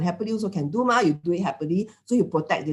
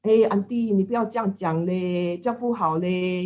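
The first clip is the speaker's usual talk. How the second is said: calm restraint. Retold or imitated. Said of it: "hold back and say".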